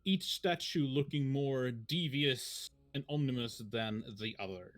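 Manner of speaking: measured scene-setting narration; story narration. Acted. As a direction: paint the scene for the players. Game master scene setting.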